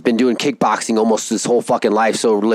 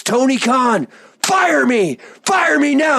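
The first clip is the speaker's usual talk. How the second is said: imitating defiant demand; 12 semitones higher, slower than usual. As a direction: dare the boss to fire him. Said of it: "And then he goes".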